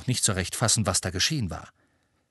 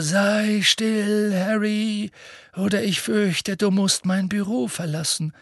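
calm, higher voiced headmaster; 8 semitones higher than usual. A narrator's reading. Headmaster calmly silences the boy. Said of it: "sagte Dumbledore ruhig".

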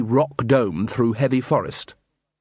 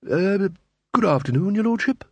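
flustered inventor; 7 semitones higher than usual. Acted. Leonard, flustered, high.

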